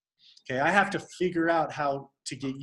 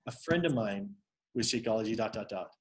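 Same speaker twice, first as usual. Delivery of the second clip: lower, understated testimonial; calm, collected; 5 semitones lower, 4 dB quieter than usual. Shown as a demonstration. Coach showing how to share a friend's story, calmly. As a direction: keep it low-key, trailing off softer. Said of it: "you just calmly, collectively say".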